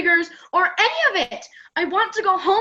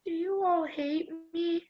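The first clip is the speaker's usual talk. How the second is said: hurt; 10 dB quieter than usual. Acted. Hurt camper asks her friends.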